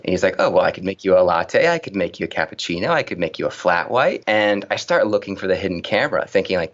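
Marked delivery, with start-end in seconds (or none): 0.4-4.2 rising lilt on every drink; barista spiel. Retold or imitated. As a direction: reel off the options, each ending upward. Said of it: "He goes back to this spiel".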